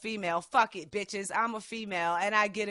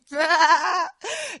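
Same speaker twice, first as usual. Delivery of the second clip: loud high villain cackle; hammed-up evil laugh; 8 semitones higher, 7 dB louder than usual. Evil laugh after threat.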